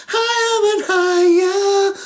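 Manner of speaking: very high, slow, loud held tone; rising high. Acted. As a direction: soar upward with the voice. Rocket rising sing-song.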